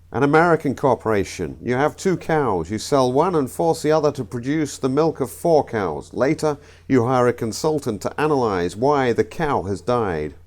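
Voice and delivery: comic put-on American accent. Comedian telling the American corporation joke, American accent. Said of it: "I know the accents were awful".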